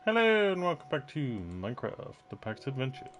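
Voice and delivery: intro greeting. Acted.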